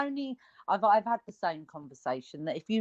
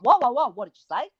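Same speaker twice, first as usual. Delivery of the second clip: baffled; 4 semitones higher, 5 dB louder, faster than usual. Retold or imitated. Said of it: "I'm like".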